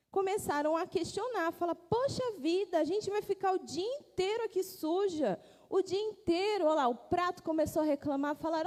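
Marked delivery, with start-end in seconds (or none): 1.8-6.7 complaining dishes. Acted. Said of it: "as louças começaram a reclamar".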